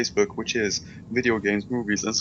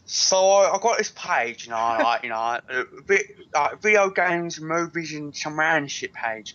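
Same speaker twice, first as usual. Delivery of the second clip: attempted Victorian English accent, raised pitch; 3 semitones higher than usual. Shown as a demonstration. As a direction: try a posh Victorian accent. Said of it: "do it in a Victorian accent".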